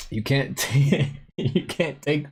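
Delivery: laughing. Real, not acted. Streamer telling viewers not to take life seriously, laughing. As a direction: start advising, then crack up. Laughing while giving the moral.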